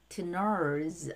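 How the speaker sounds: "Tners" with a clear r before the s; audible r. Shown as a demonstration. Teacher breaking down partners, audible r. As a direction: sound the r in "Tners". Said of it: "알 발음".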